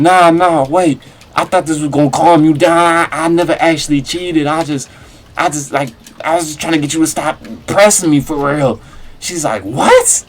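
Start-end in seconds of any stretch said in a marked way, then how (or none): 0.0-8.8 higher, louder, rushed pleading; panicked backpedaling. Retold or imitated. Retelling taking back his fake confession to his sobbing girlfriend, panicked. 9.6-10.2 sharp high shrieked what; shocked what. Retold or imitated. Girlfriend hearing he never cheated, shocked shriek. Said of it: "You know, reasonably".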